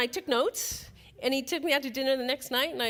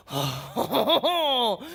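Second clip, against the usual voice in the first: exaggerated, louder swooning "oh"; a laughing, drawn-out swoon; swooning reaction; 4 dB louder than usual. Woman hearing a man's French accent, swooning. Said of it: "and I'm thinking".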